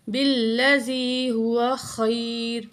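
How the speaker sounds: خیر with خا from the throat; tajweed recitation. Shown as a demonstration. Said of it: "خا گلے کے درمیان سے نکالیں گے". (خیر میں خا گلے کے درمیان سے)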